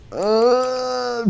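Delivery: high drawn-out mock cry; long high "uhh" of a caught hero; put-on wail of dismay; acted groan. Character caught in own web.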